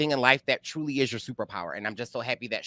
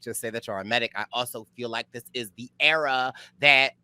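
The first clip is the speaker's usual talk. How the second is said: usual speaking voice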